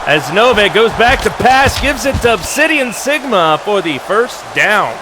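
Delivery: lively live play-by-play. Acted. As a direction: call the plays as they happen.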